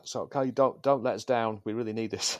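high pleading addict voice; shaky junkie voice. Acted. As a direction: beg like a desperate user. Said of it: "my best shaky voice".

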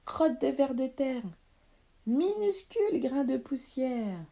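witch's heated squabbling; climactic insults. Acted. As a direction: fling the final insult with full force. Witches' final traded insults.

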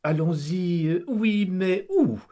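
stall, unsure where to go; hesitant wife. Acted. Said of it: "demande son épouse Kitry".

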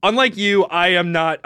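normal talking voice

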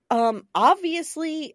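slow drawn-out sarcastic "obviously". Retold or imitated. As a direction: lay on the sarcasm. Sarcastic quote.

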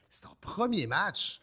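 high, loud, drawn-out disbelief; amazed reaction. Retold or imitated. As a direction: quote an astonished fan, stretching the words. Crowd's amazed reaction, acted.

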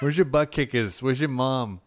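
lightly mocked Boston accent; casual hint of a Boston local. Store worker questioning a kid, light mock Boston accent. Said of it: "Very Boston".

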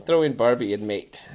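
put-on loud, joking Australian accent; half-hearted mock Australian. Riffing on his Australian impression, joking Australian accent. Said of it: "that was my Australian accent".

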